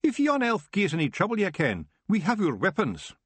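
bristling little warrior, daring the elf; menacing Scottish Feegle. Acted. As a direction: Rob threatening Nightshade, fierce Scottish accent. Rob threatening the elf.

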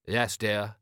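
meekly dutiful husband; understated henpecked compliance. Acted. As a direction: answer like a resigned, obedient husband. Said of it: "You're using your henpecked voice".

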